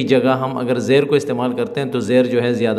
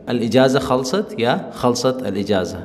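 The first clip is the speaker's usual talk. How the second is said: slow model sentence. Shown as a demonstration. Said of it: "یہاں پہ ہم کہیں گے".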